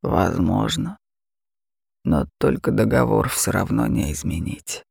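a mocking beast purring at its prey; terrifying dragon. Dragon voice held.

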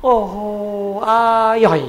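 savouring sigh of delight, acted; mock relish. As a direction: draw it out like a drinker relishing a sip. Acts out a drinker savouring liquor.

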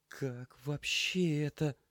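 high, slow stunned question; lost, asking nobody; mumbled disbelief. Acted. Lena at the sink, high and slow in disbelief. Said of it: "бормотала она".

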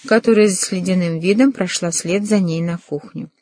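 plain reading voice

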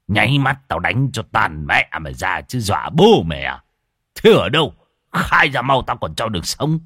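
low, rough tough-guy threat; gruff threat. Acted. Tam scolding the ghost, gruff and menacing. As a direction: scare the ghost off.

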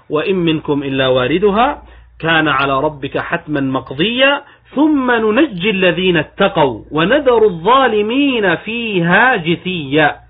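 measured verse recitation, slowing with lengthened vowels; unhurried, elongated Arabic scripture delivery; Quranic recitation. Acted. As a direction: recite the verse, drawing out the long syllables.

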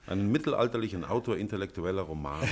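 spricht mit Lachen in der Stimme; lachend. Acted. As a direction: lacht es selbstironisch weg. Franz lacht über Verdacht. (lachend und abwinkend)

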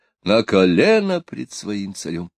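usual speaking voice

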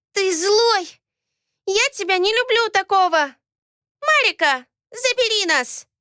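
put-on high, loud childish accusing cry; a small girl furious and upset; angry little girl. Ayat accuses her father, angry childish cry.

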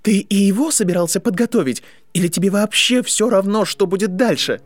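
angry accusation. A narrator's reading. Draco challenges Harry over his father, angry accusation.

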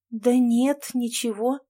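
mumbling through numb lips; numb from the dentist. Acted. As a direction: lips barely moving, mumbled. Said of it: "промямлила Наташа, еле шевеля непослушными губами".

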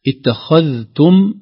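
اتخذتم drawn out slowly, high and loud; emphasised word. Shown as a demonstration. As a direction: stretch اتخذتم to show its final mim. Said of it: "عليها علامة السكون". (إبراز اتخذتم بتأنٍ)

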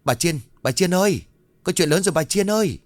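high urgent shout across the market; calling out loudly. A narrator's reading. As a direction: yell her name from afar, urgent. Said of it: "miệng hét lớn". (gọi to, hốt hoảng)

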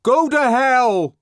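high, very loud, slow bawl; exasperated bawl. Acted. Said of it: "bawled the exasperated voice".

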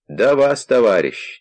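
put-on high, shaky old man's voice; quavering old man voice. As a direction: play a doddering old man at the door. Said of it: "чуть дребезжащим старческим голосом".

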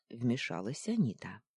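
ordinary delivery, nothing marked

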